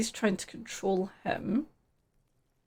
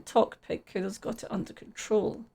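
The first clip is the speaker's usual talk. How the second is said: whispering Kuno; 5 dB quieter than usual. Acted.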